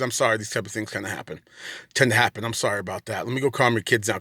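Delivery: retold apology. Police officer apologising, retold.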